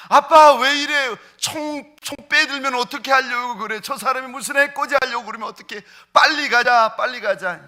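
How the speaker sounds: high, loud frightened pleading; panicked cry. Retold or imitated. Daughter and wife beg dad to leave the homeless man, panicked and loud. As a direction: retell a family member's alarm, high and urgent. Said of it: "딸내미하고 저희 집사람이 기겁하는 거예요".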